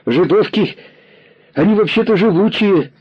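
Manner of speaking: put-on high boy's voice, sheepish; guilty boy. A narrator's reading. Boy guiltily excusing himself to the commissar. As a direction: say it like a caught kid. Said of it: "виноватым голосом сказал мальчик".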